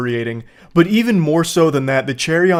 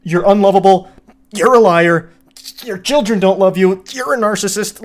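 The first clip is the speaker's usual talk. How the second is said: mock rant; 2 semitones higher, 4 dB louder, faster than usual. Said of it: "to immediately, like".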